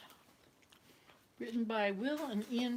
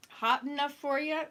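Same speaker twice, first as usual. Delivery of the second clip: louder Canadian hoser voice with a rising question; 6 semitones higher, 6 dB louder than usual. Retold or imitated. Atwood mimics a hoser asking about the weather, loud hoser voice. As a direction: ham up a cheery Canadian hoser. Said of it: "and then she said".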